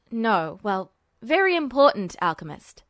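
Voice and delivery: put-on a low, weary boy's voice; tired and resigned, pitched low; Duo's voice. A narrator's reading. Duo voiced.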